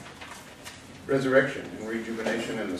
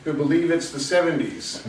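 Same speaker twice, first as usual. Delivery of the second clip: raised, projected verse delivery; poem read out higher than chat; poetry reading; 6 semitones higher, 6 dB louder than usual. Acted. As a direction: project each line of the poem to the room. Reads own poem aloud.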